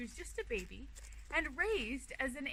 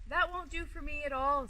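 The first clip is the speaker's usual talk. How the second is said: a touch louder, firm fox refusal; fox refusing; 4 semitones higher, 6 dB louder than usual. Acted. Fox turning down the bear's advice, firm refusal. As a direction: plant your feet and say no.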